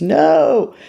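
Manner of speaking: high, insistent inner nag; high-pitched demand from the fixated self; obsessive inner voice. Acted. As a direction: act out your obsessive side, pitched high. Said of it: "this obsessive person in me goes".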